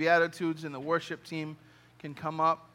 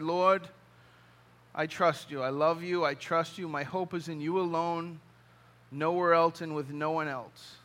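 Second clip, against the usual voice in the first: softer, quieter sincere confession of trust; humble surrender; 2 semitones lower, 4 dB quieter than usual. Retold or imitated. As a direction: pray it gently, fully surrendered. Deeper surrender prayer, drawn deeper.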